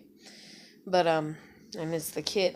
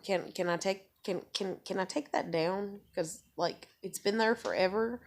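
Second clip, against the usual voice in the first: timid plea; 5 dB quieter than usual. Retold or imitated. Asking mom to remove picture.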